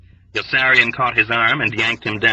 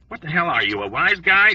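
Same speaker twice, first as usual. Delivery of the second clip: yelling back; 7 semitones higher than usual. A narrator's reading. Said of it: "Dobbs yelled back".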